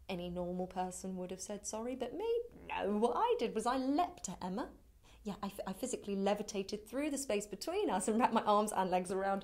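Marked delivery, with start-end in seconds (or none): 2.7-9.4 loud, animated comic confession; frantic confession. Acted. Telling how she leapt at Emma, frantic comic confession. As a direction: build loudly through the absurd account.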